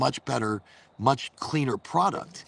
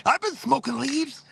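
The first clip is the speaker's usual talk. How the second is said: much higher and slower, amused disbelief; surprised realization; 11 semitones higher than usual. Real, not acted.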